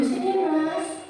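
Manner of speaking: gentle calling. Shown as a demonstration. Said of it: "Itu di posisi manajer".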